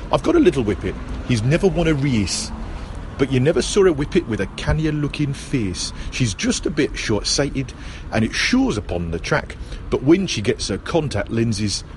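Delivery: put-on a rough, lightly done Geordie accent; attempted Geordie accent. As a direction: have a go at a Geordie folk song in the accent. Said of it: "that's my attempt at Geordie".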